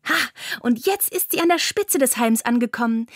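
usual speaking voice

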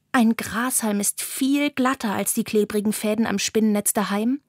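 usual speaking voice

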